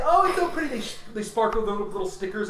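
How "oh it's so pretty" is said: high cooing squeal of delight; mock girly gush. GM voicing a player gushing over sparkly nails. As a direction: coo over the pretty nails, much higher. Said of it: "you say".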